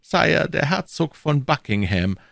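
silky churchman stepping back, high voice; cardinal's voice. A narrator's reading. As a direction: play the sly cardinal, pitched well up.

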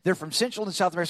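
fast rattled-off show greeting; show host. Retold or imitated. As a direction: rattle off a rehearsed bird show intro. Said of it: "I'd come out there and say".

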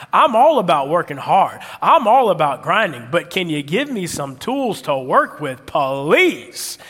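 emphatic, drawn-out begging for help; exasperated plea. Acted. Worker venting about the boss's slogan, exasperated plea. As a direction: punch the key words, drag out the please.

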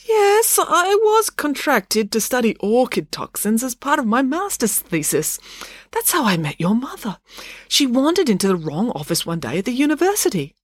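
high-pitched, careful academic voice; Dad, earnest scientist. Acted.

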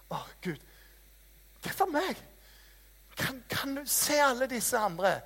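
a half-comic wail up to heaven; mock despairing plea. Preacher retelling his complaint to God, high and pleading. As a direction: pitch leaps high on hvorfor meg.

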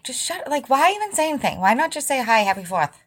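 pitched high, incredulous and fed up; why bother, throw it back at him with disbelief; exasperated retort. Retold or imitated. Exasperated retort to brother's friend.

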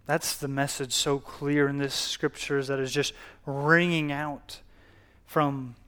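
measured prayer addressed to God; public prayer. Real, not acted. Pastor praying to God before the sermon, prayer. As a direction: pray aloud with long, deliberate pauses.

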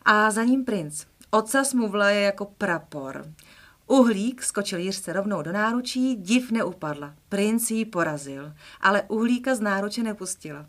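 storybook reading, lively and clear; expressive children's story reading; reading a children's book aloud. Acted. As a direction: read it like a bedtime story.

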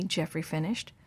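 ordinary delivery

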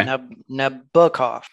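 halting Nabokov as nab-BUH-kof, restarted after the first syllable; stress on middle syllable. Shown as a demonstration. Host practising the name for the co-host, haltingly stressing the middle of Nabokov. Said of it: "emphasis is on the middle syllable".

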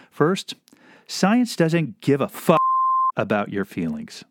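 slow, pointed scolding; mock stern message. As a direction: lay it down slowly, pointed. Message to a protester.

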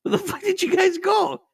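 high, loud mock call on the phone; imitated calling out. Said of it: "He said".

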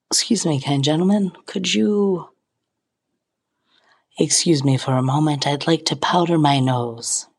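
a hint of a prim, genteel lady; lightly put-on fancy manners; mock-polite posh ask; mock posh request. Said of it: "That's not at all what I said".

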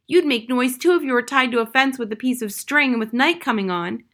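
a trapped bird pleading to get free; young crow. Acted. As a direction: crow caught on the fence, scared and insistent.

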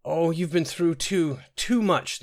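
high, drawn-out wail of sympathy; bawling. A narrator's reading. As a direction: wail with pity, pitched well up. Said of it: "the Nord woman bawled".

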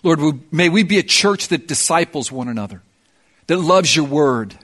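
earnest, measured prayer voice; pastoral prayer. Acted. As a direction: pray over the congregation, steady and sincere.

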